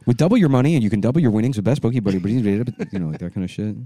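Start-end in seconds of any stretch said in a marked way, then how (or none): 0.1-2.2 rapid-fire disclaimer read; fast ad read. Shown as a demonstration. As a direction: rattle it off like a fast insurance spot. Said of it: "the quick reading stuff".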